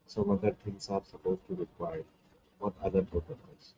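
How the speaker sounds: faint voice, barely heard; barely audible. Real, not acted. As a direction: speak faintly, as if far from the mic. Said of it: "your voice is very faint and we can barely hear you".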